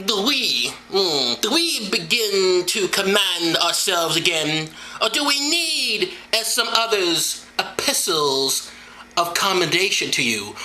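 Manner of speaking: lightly put-on slow preacher voice; Paul voice. Drinker reads Paul's letter in his Paul voice, a light slow put-on. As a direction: read it as a tipsy Paul, drawn out. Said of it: "my Paul voice".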